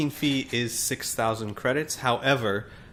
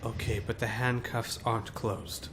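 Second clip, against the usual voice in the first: softer, hesitant prisoner; 7 dB quieter than usual. A narrator's reading. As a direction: point out the flaw uncertainly. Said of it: "He looks at you hesitantly".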